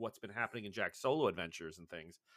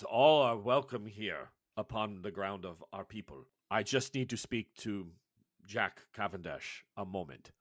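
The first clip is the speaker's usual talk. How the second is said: lightly voiced tribal elder, solemn; grave elder Sectu; 2 semitones lower, 3 dB louder than usual. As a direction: speak like a wise old healer, unhurried. Sectu welcomes the group.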